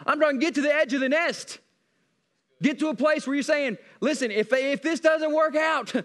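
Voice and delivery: emphatic, driving sermon delivery; full-force preaching. Acted. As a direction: preach it hard to the congregation.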